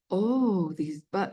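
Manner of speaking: imitated mother with a cute German accent; lightly voiced German-accented mom, delighted. Mom praising her daughter's baking, in a cute German accent. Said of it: "in a cute German accent".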